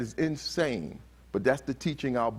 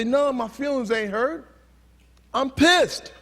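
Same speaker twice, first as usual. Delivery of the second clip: high indignant denial, bursting louder at the end; angry boy; 10 semitones higher, 5 dB louder than usual. Retold or imitated. Speaker acts a boy denying hurt feelings, angry outburst. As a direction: imitate a boy insisting he's pissed. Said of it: "he's angry at him".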